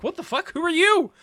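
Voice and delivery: high, loud, incredulous outburst; shocked disbelief. Retold or imitated. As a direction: act out being totally thrown by a stranger. Retold shock at hearing perfect English.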